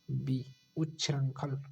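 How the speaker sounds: उच्छृंखल said slowly with each sound clear; slow careful pronunciation. Shown as a demonstration. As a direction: pronounce उच्छृंखल slowly for the class. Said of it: "B शुद्ध होगा". (उच्छृंखल धीरे और साफ़)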